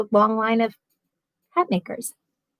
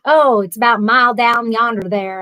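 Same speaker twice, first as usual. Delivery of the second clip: put-on North Carolina accent; 4 dB louder than usual. Mom after a week in North Carolina, imitated Southern accent. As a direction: mimic mom's newly acquired North Carolina accent. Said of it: "My mom moved to North Carolina".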